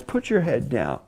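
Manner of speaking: hushed. Shown as a demonstration. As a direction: drop to a prayerful hush. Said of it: "raise your hands. Look up into the heavens".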